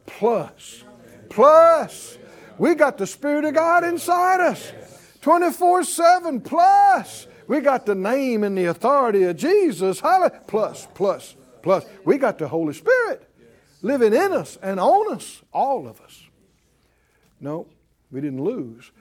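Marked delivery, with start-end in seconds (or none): 1.3-2.2 Plus flung out loud and high; shouted plus. Shown as a demonstration. 2.6-16.2 loud, high, driving preacher's cry; full-force preaching. Acted. Preacher rousing the congregation about the better covenant, loud and high.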